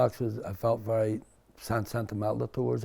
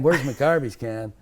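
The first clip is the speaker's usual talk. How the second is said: put-on American accent; 3 semitones higher, 5 dB louder than usual. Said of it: "I was saying things like cookie jar".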